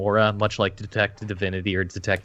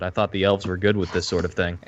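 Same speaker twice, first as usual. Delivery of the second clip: snooty. Acted. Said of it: "looks at her rather snootily".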